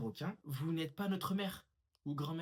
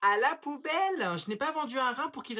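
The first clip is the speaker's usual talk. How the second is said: angry shout; 5 semitones higher, 4 dB louder than usual. Acted. Mother on the phone refusing procedure, shouting. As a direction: shout it at the supervisor.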